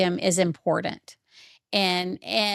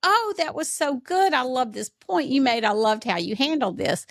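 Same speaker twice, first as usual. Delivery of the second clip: praising mom. Retold or imitated. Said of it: "I'd say".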